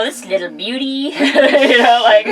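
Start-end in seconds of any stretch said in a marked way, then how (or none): 0.0-0.8 put-on terrible Australian accent; a bad Aussie wildlife host accent; Steve Irwin Australian accent. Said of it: "there was a terrible Australian accent".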